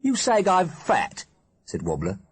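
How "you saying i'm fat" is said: put-on higher, slow, offended boy; a lightly voiced put-out teenager; teen boy voice. Wobbler takes offence at friends.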